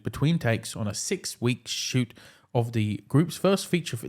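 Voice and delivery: formal promo reading voice; earnest press-release read. Acted. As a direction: read it like the streaming service blurb. Reading the Apple Music blurb.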